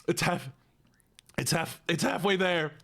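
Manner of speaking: whispered encouragement to self; breathy self-pep talk under breath. Real, not acted. Psyching up mid-lemon.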